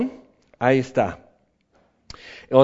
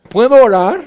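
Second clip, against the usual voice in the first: timid plea; 5 semitones higher, 8 dB louder than usual. Pretend. Timid believer asks God.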